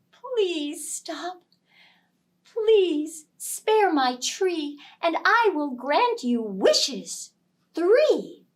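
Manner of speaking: high, slow pleading spirit voice; tree spirit voice. Acted. Tree spirit begs him.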